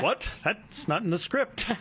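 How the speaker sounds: slow, hammy stage line; thespian voice. Acted. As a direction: ham up the shocked reply. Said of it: "I like the thespian voice there".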